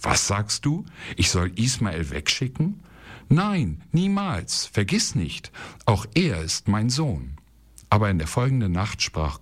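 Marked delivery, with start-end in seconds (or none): 0.0-7.3 a shocked no, with Nein and niemals jumping up high; stunned, pushing the idea away; startled refusal. Acted. Abraham to Sarah, refusing to send his son away, startled and high on Nein. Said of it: "wehrte erschrocken ab".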